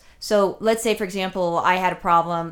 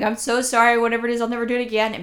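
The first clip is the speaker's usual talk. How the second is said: higher-pitched mock pleading, rushing at the end; a touch of panicky apology, hammed up; 4 semitones higher, faster than usual. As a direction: play at begging forgiveness, getting faster. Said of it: "I would be crying at that point".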